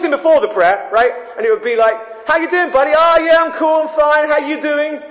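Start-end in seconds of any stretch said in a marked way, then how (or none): 2.3-5.0 casual buddy voice. Retold or imitated. Friend's casual chat before prayer.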